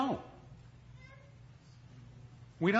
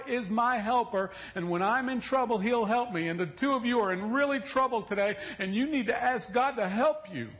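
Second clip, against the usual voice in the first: put-on higher childlike lecture; earnest child; 7 semitones higher than usual. Young son teaching his parents a psalm, high and earnest. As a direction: explain it earnestly like a six-year-old.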